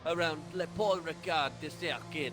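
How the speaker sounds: slow, hammed-up English in a French accent; Joey Barton. Co-host parodying race commentary for his mate, in a mock French accent. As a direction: put on a comic French accent, drawing it out. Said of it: "a bit like Joey Barton trying to speak".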